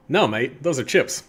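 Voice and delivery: rough attempt at an Australian accent; lightly put-on Australian accent. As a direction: slip into a vaguely Australian accent. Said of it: "kind of an Australian accent".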